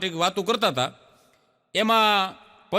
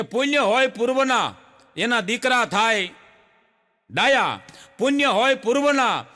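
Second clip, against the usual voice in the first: poem recital; 2 semitones higher than usual. Acted. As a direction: recite the couplet with weight. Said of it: "કવિ ... લખ્યું છે". (કવિતાનું પઠન)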